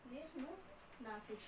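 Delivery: soft, drawn-out syllables; slow dictation. Real, not acted. Teacher repeating the term while writing, slow dictation. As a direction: stretch the term out quietly, part by part.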